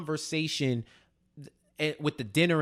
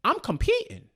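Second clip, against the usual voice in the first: quoting Tariq. Retold or imitated. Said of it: "he tells Lauren, like".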